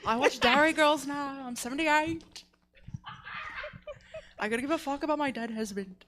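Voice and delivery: put-on Irish accent. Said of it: "You're so close".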